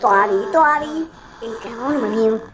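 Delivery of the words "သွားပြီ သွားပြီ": panicked cry. Real, not acted. Scared reaction to ghost.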